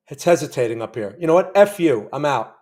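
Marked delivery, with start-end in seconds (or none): 1.2-2.5 louder, real snap of frustration at the chart; frustrated outburst. Real, not acted. Trader cursing at a stalling trade, frustrated loud outburst. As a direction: blurt it out, fed up. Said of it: "Sorry, I'm a little emotional".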